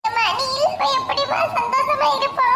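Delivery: high-pitched anxious sibling voice; scared young sibling. Acted. Siblings waiting for mother's call, nervous and high.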